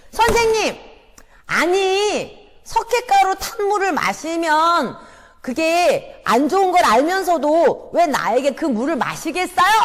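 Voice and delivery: loud, high accusing shout at the teacher; shouting boy. Acted. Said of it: "이렇게 소리 지르는 거예요".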